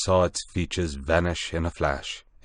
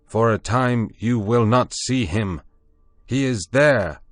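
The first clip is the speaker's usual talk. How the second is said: louder, higher prophet call; raised voice; 5 semitones higher, 6 dB louder than usual. A narrator's reading. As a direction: preach to frightened beasts. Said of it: "lifted up my voice".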